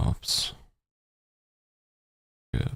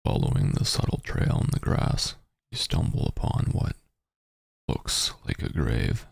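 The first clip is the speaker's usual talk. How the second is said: narrating a text adventure. Acted. Reads text adventure aloud.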